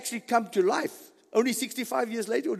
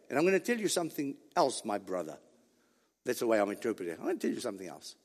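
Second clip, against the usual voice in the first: soft, low, trailing down; hushed confiding; 10 semitones lower, 9 dB quieter, much faster than usual. Acted. Preacher voices Christ telling his brother something else, hushed confiding. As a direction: confide it quietly like a secret.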